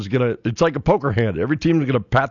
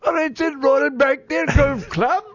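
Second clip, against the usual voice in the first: high, hammed-up Cockney accent; over-the-top fake Cockney accent; mock Cockney accent; 14 semitones higher than usual. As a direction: put on a Dick Van Dyke Cockney accent. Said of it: "you're a little bit, uh, Dick Van Dyke".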